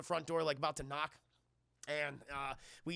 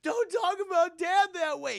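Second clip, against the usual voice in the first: higher and louder, an angry shout at his brother; furious shout; 10 semitones higher, 9 dB louder than usual. Retold or imitated. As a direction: bark it out, protective of dad. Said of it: "He's like".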